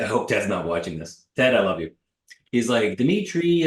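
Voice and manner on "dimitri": high-pitched mimicry of a mortgage broker; high put-on voice of a pal; Ted. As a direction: call the name high, imitating a friend. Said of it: "this is my Ted".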